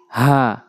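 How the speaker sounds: হা low and open from the bottom of the throat; plain glottal হা, pitched low; light throat H. Shown as a demonstration. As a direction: breathe হা from deep in the throat, unpressed. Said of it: "হলকের শুরু থেকে".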